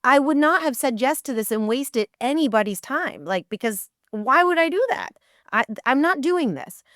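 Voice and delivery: retold standing her ground; indignant refusal. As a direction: refuse as if insulted to be asked. Refuses the job.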